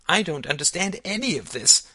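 put-on high, loud little-girl protest; crying out. A narrator's reading. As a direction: cry out high like a frustrated child. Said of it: "cried Alice".

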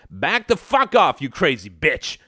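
high burst, dropping at the end; angry yell. A narrator's reading. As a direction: push her back with the voice. Husband fights back, face purple.

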